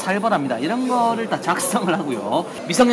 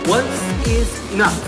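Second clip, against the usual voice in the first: quoting the coach; 3 semitones higher, much slower than usual. Retold or imitated. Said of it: "코치들이 한 말이 있어요".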